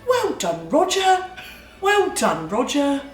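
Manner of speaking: lightly voiced proud praise, high on Roger; mild sing-song well done Roger; imitating the wife. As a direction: cheer him on like a proud wife. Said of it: "And she'll go".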